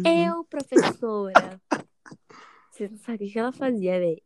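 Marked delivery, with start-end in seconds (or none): 0.1-1.6 slow, drawn-out eager reply; eager volunteering. Retold or imitated. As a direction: raise your hand eagerly, stretching it. Eager classmate volunteering to teacher. (ansiosa se oferecendo, bem devagar)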